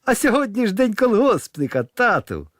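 put-on high, bright little boy piping up; boy cheerfully telling his father it's the holiday, in a high child voice; ringing child voice. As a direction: squeak it out like an eager schoolboy. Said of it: "дзвінким дитячим голосом".

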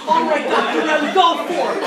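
high, loud burst of encouragement; excited cheering-on. Acted. Student cheering on the professor in front of class, loud and excited. Acted reaction cheering on the speaker.

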